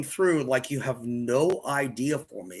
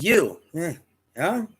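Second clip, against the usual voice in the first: higher, coaxing broken-English voice; imitating shopkeeper; 4 semitones higher, 4 dB louder than usual. Storyteller imitating the saleswoman offering the cane, coaxing and high. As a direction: push the cane on him like a pushy saleswoman. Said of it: "she goes".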